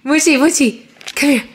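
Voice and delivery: high sing-song call. Real, not acted. Calling the baby.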